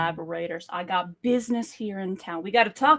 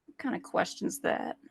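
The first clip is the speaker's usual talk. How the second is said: whispered offence; 5 dB quieter than usual. Acted. Unvoiced mock offence.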